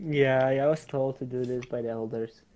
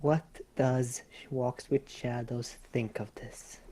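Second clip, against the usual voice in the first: whispering; 4 dB quieter, slower than usual. Real, not acted. Whispered question to a player.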